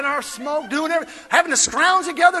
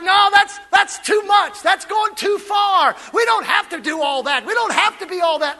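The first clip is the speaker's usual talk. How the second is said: mock alarmed churchgoer; 4 semitones higher than usual. Churchgoer protests at preaching, mock alarmed. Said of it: "It's like".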